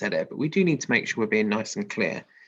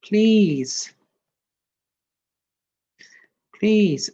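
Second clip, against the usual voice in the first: put-on pleading baby goat; 8 semitones higher, 9 dB louder than usual. Baby goat begging the troll.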